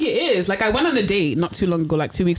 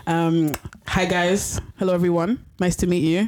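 careful formal greeting. Real, not acted. Guest introduces herself to podcast listeners, carefully articulate.

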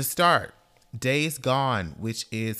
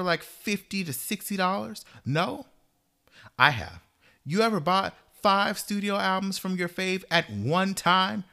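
fired-up, higher-pitched rant with punched answers; slightly aggressive; 5 semitones higher than usual. Real, not acted. Devoted fan scolding doubters of their love for the singer, slightly aggressive. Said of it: "that was slightly aggressive".

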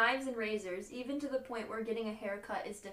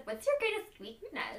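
imitating interviewer voice; 5 semitones higher than usual. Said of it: "I just love the way Amanda said".

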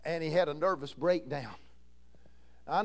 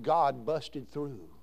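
low, very slow and hushed; slow, reverent quote; 5 semitones lower, much slower than usual. Retold or imitated. Pastor recalling revival, low and drawn out. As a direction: draw it out low, like the old pastor did. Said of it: "That's how he said it".

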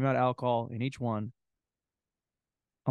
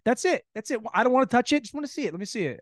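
higher, pleading silly voice; lightly hammed-up begging; mock high voice; 8 semitones higher, faster than usual. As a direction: playfully beg to just look.

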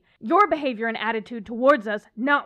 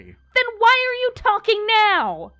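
higher, louder slow accusing question; indignant outrage; exasperated demand; 10 semitones higher, 5 dB louder, slower than usual. Acted. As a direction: demand an answer. Angry argument with demon.

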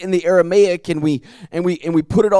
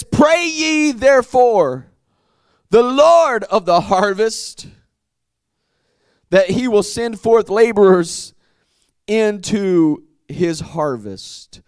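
preaching verse read; slower than usual. Acted. Preacher reading the verse to his congregation, proclaiming. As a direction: proclaim each phrase with weight.

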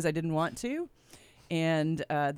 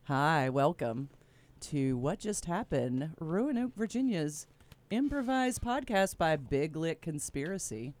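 radio voice; 4 dB quieter than usual. Shown as a demonstration. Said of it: "I'm using my radio voice right now".

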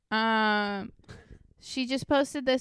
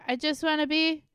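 acted-out quote; 5 semitones higher than usual. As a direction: stretch out the last word, pitched up. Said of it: "I was quoting that".

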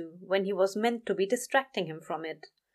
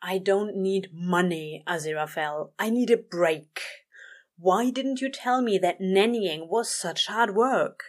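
exhausted. Acted. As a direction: drag the words out, exhausted. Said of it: "Crowley groaned, exhausted".

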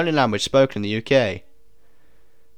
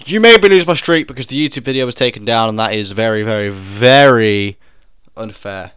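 mock outrage; 8 dB louder than usual. Real, not acted. Gamer complaining to the quiz about his lost streak, mock outrage. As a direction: complain about the unfair quiz, stretching the words.

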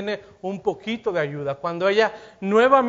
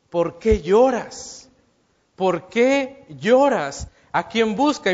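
slow, reproachful "¿Por qué lloras?" with a demanding edge; 2 semitones higher, 4 dB louder, slower than usual. Shown as a demonstration. Jesus questioning the weeping Mary, slow and reproachful. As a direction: ask it slowly, like a rebuke. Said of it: "no es el tono que yo le estoy dando, tal vez no le está reclamando".

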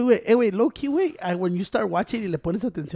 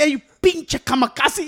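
drawn-out movie line; 7 semitones higher, slower than usual. Retold or imitated. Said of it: "Y le dice".

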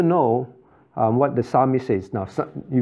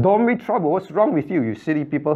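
mock scolding; 3 semitones higher than usual. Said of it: "He's not saying".

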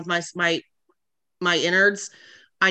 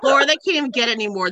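laughing; 6 semitones higher, 5 dB louder, faster than usual. Real, not acted. Laughing at friends.

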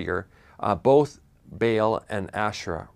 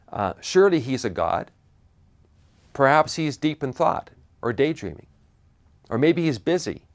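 mild mocking taunt; 4 semitones higher than usual. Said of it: "Elijah began to taunt them".

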